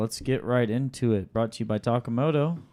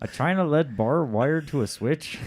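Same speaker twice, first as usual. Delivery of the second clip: Canadian accent; 3 semitones higher than usual. Shown as a demonstration. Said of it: "Can you say this in a Canadian accent".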